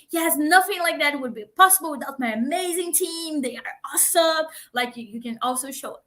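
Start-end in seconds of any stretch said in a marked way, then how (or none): 0.1-4.5 higher, lively shout-out to the team; proud team shout-out; animated praise. Shown as a demonstration. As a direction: beam about the team. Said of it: "a lot of fun and animation".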